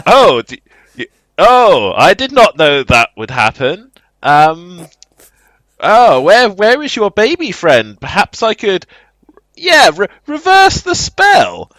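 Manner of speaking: high, halting creepy schemer; creepy quest giver. Retold or imitated. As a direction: stammer out a suspicious offer, swooping up in pitch. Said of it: "weird, creepy quest giver".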